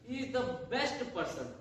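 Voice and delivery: teacher reads the example sentence to the class, very slowly; slow dictation. Shown as a demonstration. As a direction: slowly read out, word by word, stress on the. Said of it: "जैसे कि आप कहते हैं ना".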